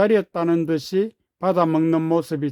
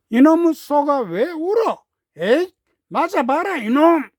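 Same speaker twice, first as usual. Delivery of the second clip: angry shouting man; 8 semitones higher than usual. A narrator's reading. Jeong beats the crying calf.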